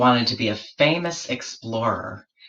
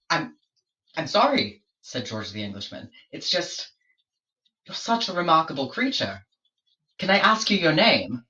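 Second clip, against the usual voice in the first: higher, hesitant then eager explorer voice; flustered George; 4 semitones higher than usual. Acted. George apologising to the platypus, higher flustered voice. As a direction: stammer sorry, then lean in keenly, pitched up.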